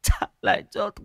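high, slowed, furious shriek of a mad mother; crazed threats. Acted. Crazed mother slashing at graves. (người mẹ hóa điên chém đất, thét cao chậm và giận dữ)

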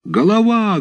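very high alarmed cry of the lads; startled shout. A narrator's reading. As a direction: yell it high in alarm as they scatter. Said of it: "закричали хлопцы и разбежались".

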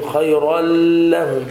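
خيرا لهم with a hummed ghunna before ل; wrongly nasalised. Shown as a demonstration. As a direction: imitate the error, droning through the nose into لهم. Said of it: "لا تغن".

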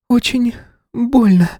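put-on a hurt girl whimpering; sobbing girl. A narrator's reading. Wounded schoolgirl to lawyer, high slow whimper. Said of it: "всхлипнула девушка".

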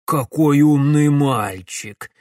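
put-on villain gloating over the boy; exclamation. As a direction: savour the win, drawn out. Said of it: "воскликнул Ипполит Германович".

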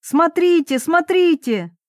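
high, urgent calls to look; pointing everyone at the stage, pitch up; excited. A narrator's reading. Narrator urging the crowd to look.

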